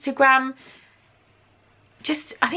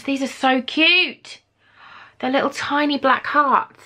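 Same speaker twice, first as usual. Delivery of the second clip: cooing; 4 semitones higher, 3 dB louder, slower than usual. Real, not acted. Cooing over tiny earrings.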